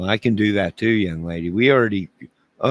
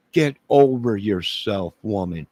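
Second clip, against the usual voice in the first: louder mock scolding; 4 semitones higher, 4 dB louder than usual. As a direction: drag out "over" in mock indignation.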